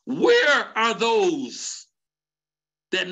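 slow, hushed preacher whisper; dramatic whisper. Real, not acted. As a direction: draw the church in with a whisper.

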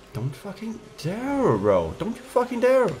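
high, slow, drawn-out angry yell; furious yell. Real, not acted. At a rival car, a high furious drawn-out yell. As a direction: warn the rival off with rage.

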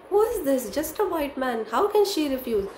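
high, indignant acted questions; angry. Mistress fuming over the servant's refusal, angry. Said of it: "she was so angry".

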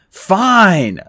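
loud, clipped-off concession; shouted. Acted. Percy shouts his agreement to Annabeth, loud. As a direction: bark it out, giving in. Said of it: "I shouted".

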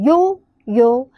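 呦呦 modelled as a drawn-out "yo", twice; pronunciation demo. Shown as a demonstration. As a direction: hold each 呦 clearly for learners. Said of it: "它是念呦呦".

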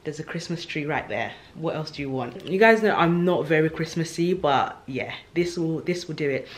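slight lisp from a retainer; lispy, talking around a retainer. Real, not acted. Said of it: "I sound a little bit lispy".

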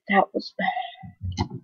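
slow whispered "That was bad.". Shown as a demonstration. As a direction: breathe it out as a whisper, slowly. Repeats the line as a whisper.

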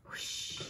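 soft breath of rushing air; whoosh. A narrator's reading. Stunt car is airborne, soft whispered whoosh. Narrator imitates flight through air.

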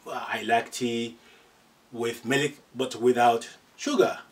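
slow, clear model phrase; slow model sentence. Shown as a demonstration. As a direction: read it out slowly like a teacher's example. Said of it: "you can always say".

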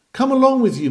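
high, loud friendly summons; calling out. Acted. Preacher calling the odd man to Christ, loud. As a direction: call the sinner in, high and bright. Preacher calls sinner to come.

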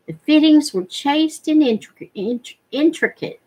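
stumbles on "intric-, int-, intricate" before getting it out; stumbling over intricate. Real, not acted. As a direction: trip over "intricate" twice before landing it. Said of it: "Blah, I couldn't say that word".

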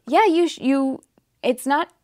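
talking with fur stuck in mouth; words caught on a hair in the mouth. Real, not acted. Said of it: "I have Suki fur in my mouth".

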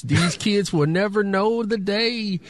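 a hint of a grumbling old-timer; old man voice. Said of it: "in my old man voice".

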